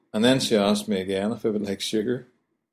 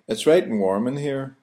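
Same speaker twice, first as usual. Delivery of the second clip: Belfast phrase; 4 semitones higher than usual. Shown as a demonstration. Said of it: "We'll say".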